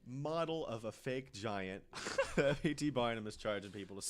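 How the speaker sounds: loud, high laughing recap; laughing disbelief. Real, not acted. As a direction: laugh through the absurdity.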